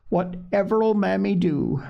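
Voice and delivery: worried thought. A narrator's reading. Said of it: "she thought".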